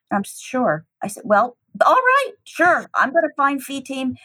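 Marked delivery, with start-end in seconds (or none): 1.2-4.1 overwhelmed promise. Retold or imitated. Promising to find the mother.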